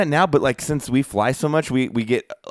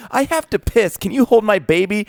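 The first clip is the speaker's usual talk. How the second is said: put-on girl's voice; 7 semitones higher, 3 dB louder than usual. Voicing young pregnant girl's request.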